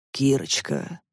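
soft, low velvety endearment. Acted. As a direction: coo the name softly. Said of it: "бархатным голосом произносит он".

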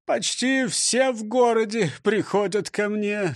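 slow, panting answer; out of breath. Acted. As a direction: gasp it out after running. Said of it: "с трудом переводя дух". (задыхаясь)

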